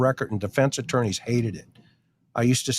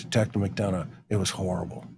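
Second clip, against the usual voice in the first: retold crying confession; 4 semitones lower, 7 dB quieter than usual. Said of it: "he's crying and he goes".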